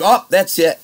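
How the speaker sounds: mock-offended manager; mock boss huff. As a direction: play the boss as a hammed-up prissy huff. Boss quoted in the fight.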